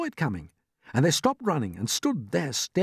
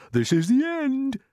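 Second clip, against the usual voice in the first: high, slow cry of doom; despairing cry; 12 semitones higher, slower than usual. A narrator's reading. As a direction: draw it out as a doomed old grasshopper. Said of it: "cried the old green grasshopper".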